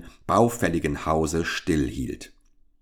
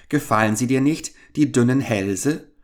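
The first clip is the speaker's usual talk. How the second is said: laughing witch's murmur; 6 semitones higher, 4 dB louder than usual. A narrator's reading. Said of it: "murmelte die Alte lachend".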